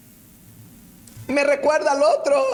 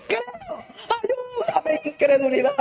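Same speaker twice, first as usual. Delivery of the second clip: crying plea; 10 semitones higher than usual. Acted. Father's cry of faith.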